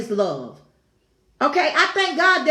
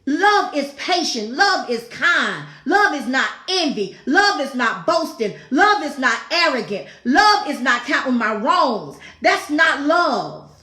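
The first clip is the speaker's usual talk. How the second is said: preaching litany. Acted. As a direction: hammer each line home to the congregation. Preacher's emphatic litany on love.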